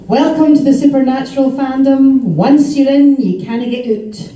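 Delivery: a hint of a Scottish fan's lilt; Scottish accent. Retelling a Scottish fan's welcome at a convention, lightly imitated Scottish accent. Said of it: "in a s-, her Scottish accent".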